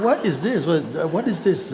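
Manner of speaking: laughing retold disbelief; baffled. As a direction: throw up your hands in amused confusion. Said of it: "I said".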